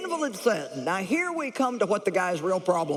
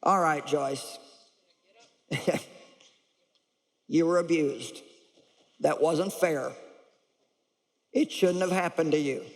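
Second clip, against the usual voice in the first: lower, calm and reassuring; gentle firm voice of God; 3 semitones lower than usual. Retold or imitated. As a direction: speak kindly but firmly. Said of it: "what God had to say to me".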